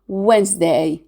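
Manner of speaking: "Wednesday" as WENZ-day, middle E dropped; silent E. Shown as a demonstration. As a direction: say Wednesday in two syllables, S as Z. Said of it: "we drop out the E letter".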